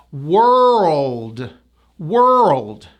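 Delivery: "World" drawn out, WER into L and D; tight er vowel. Shown as a demonstration. Teacher assembles the word, drawn-out "World" with L-D ending. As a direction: stretch the ER in "World", close on LD. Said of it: "go to an L and a D".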